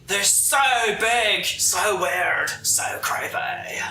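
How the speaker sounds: slow, drawn-out surfer dude. Retold or imitated. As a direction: stretch it out like a stoned surfer. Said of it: "I meant, like, surfer".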